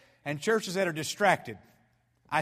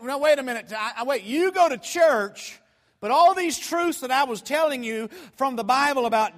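raised, louder disbelieving questioning; incredulous challenge; 6 semitones higher, 5 dB louder than usual. Retold or imitated. Preacher questioning churchgoing woman about salvation, incredulous. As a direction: press her in loud disbelief, acting it out.

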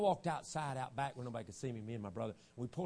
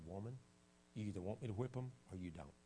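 stern father; 5 semitones lower, 11 dB quieter than usual. Retold or imitated. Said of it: "looked at her and said".

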